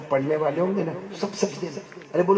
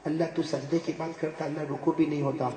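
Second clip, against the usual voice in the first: whimpering sinner; 7 dB quieter than usual. Acted. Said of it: "کیا کہیے معلوم آخر میں؟".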